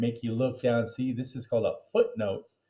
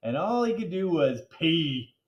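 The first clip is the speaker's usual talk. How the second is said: teary mom; 5 semitones higher than usual. Acted. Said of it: "Missus Dole continued".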